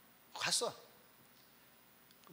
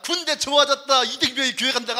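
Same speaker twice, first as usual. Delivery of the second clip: lightly acted irate senior, raised voice; mock angry grumbling; 5 semitones higher, 7 dB louder than usual. Seniors scolding a churchgoing private, mock anger. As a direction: complain loudly like an outraged senior. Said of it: "욕하는 거죠. 막, 던지면서".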